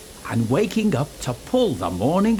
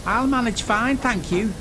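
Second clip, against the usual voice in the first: huffy, higher-pitched retort; grumbling; 8 semitones higher than usual. A narrator's reading. James brushing off Percy, in a huffy grumble. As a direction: brush off the advice. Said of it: "James grumbled".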